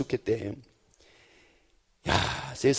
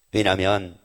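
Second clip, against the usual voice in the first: ordinary talk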